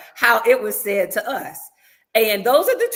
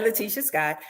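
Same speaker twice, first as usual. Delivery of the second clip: pointed full name; 3 semitones lower, 4 dB quieter than usual. Retold or imitated. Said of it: "she said it like that".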